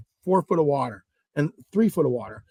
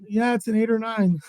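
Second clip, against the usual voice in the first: agree, breaking into a laugh; laughing concession; 4 semitones higher than usual. Retold or imitated. Storyteller confirms the partner's big catch, laughing. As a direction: give in with a laugh at the end.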